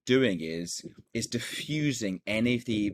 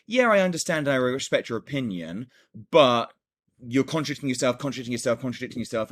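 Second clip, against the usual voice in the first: retold pushy reply, higher and louder; mock the client's combative text; confrontational; 3 semitones higher, 5 dB louder than usual. Client's confrontational message to a lost buyer, imitated. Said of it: "she started being confrontational".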